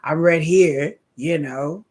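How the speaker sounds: Celebrimbor's sassy reply. Retold or imitated. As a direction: show off: it's me, right here. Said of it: "He's like".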